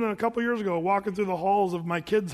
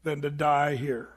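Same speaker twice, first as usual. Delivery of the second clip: mock outcry; 4 semitones lower than usual. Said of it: "they're saying".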